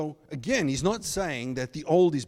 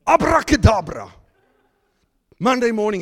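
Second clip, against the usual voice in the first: mock magic word; 7 semitones higher, 10 dB louder than usual. Mocking magic-cure expectations.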